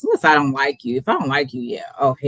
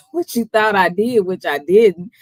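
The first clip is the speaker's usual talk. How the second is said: tipsy rambling, giggling. Real, not acted. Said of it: "I'm just a little tipsy".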